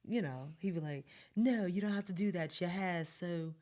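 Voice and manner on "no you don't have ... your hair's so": imitating him in a put-on British lilt; British accent. Co-host imagining him admiring her hair, shaky British accent attempt. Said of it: "What is up with this British accent".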